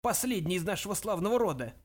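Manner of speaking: put-on elderly ghost, high and indignant; imperious old ancestor. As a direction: correct him grandly, stretching the name. Voices the great-grandfather ghost.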